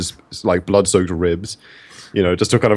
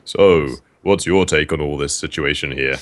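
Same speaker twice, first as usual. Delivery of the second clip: a hint of a slow, lower necromancer; 4 semitones lower than usual. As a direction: commune with the dead, slowly. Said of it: "put my necromancer voice on".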